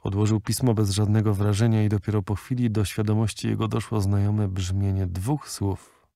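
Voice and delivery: ordinary delivery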